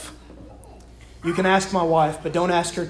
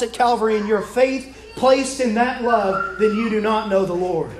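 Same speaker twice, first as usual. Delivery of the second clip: emphatic, higher-pitched sermon delivery; preaching; 4 semitones higher than usual. Real, not acted. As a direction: drive each point home to the congregation. Preaches with rising force.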